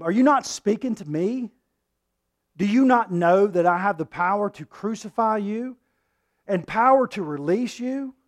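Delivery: loud, high, domineering governor; Pilate's threat. Acted. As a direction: bear down on him with your power.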